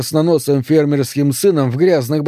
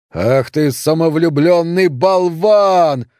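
a slow, furious drawn-out insult, slightly raised; yelled insult; 4 semitones higher, much slower than usual. Acted. Father yelling slowly at his runaway son. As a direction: spit each word out slowly at the son. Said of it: "заорал в ответ отец".

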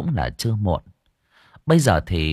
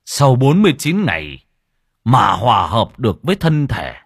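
much higher, louder frantic shout building; urgent monk's warning; 4 semitones higher, 6 dB louder than usual. Acted. Monk shouts urgent warning to hurry, much louder. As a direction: cry out the danger, faster and faster.

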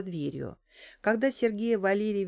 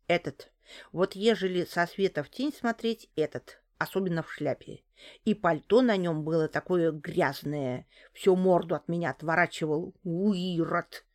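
put-on old neighbour woman. A narrator's reading.

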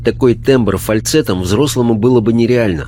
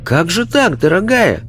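affectionate, higher-pitched woman's voice; rich, tender voice; 10 semitones higher than usual. A narrator's reading. Mrs Bolsover gently questioning the spirit child, tender voice. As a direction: ask fondly, lifting the pitch. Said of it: "ласковым голосом".

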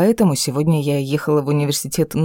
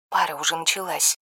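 softer, hushed into the phone; quietly, so class can't hear; 6 dB quieter than usual. A narrator's reading. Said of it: "шепчет в трубку Стефа". (тихо, вполголоса)

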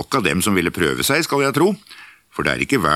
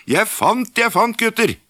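excited call. Acted. Askeladden calling his find to his brothers, high excited shout. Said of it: "ropte han".

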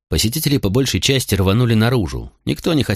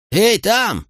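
frightened call; 13 semitones higher than usual. A narrator's reading. Lookout in the street warning the tavern, frightened shout. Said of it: "послышался испуганный голос с улицы".

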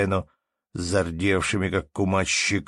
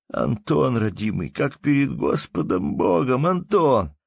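pleading; 6 semitones higher, 3 dB louder than usual. Acted. Anton swearing his name.

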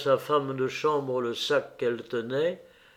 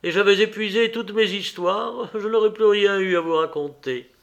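higher, louder, lively lady's voice; cheerful; 6 semitones higher, 4 dB louder than usual. A narrator's reading. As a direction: keep the gay social chatter going. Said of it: "dit-elle gaiement". (ton enjoué, voix plus haute)

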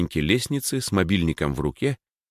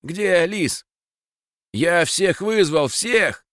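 much higher, desperate and loud; frantic shouting; 11 semitones higher, 3 dB louder, much slower than usual. Acted. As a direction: cry out in panic. Max frantically searching for Lis.

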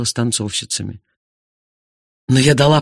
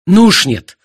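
loud, higher outraged cry; angry husband shouting at his wife; outcry; 8 semitones higher, 7 dB louder than usual. Acted. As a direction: burst out at his wife, fed up. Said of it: "вскричал Артур".

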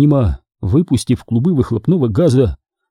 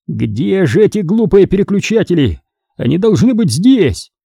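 grumbling; 6 semitones higher than usual. A narrator's reading. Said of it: "ворчал мистер Бэнкс".

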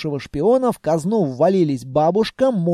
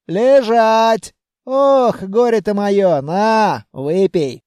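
put-on raised, scolding old granny voice; scolding grandmother; 3 semitones higher, 5 dB louder, much slower than usual. Grandmother scolding Vanya after the explosion, raised. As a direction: hug and scold in one breath.

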